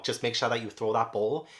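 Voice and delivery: usual speaking voice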